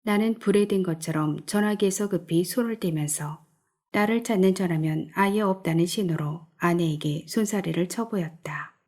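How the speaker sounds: usual speaking voice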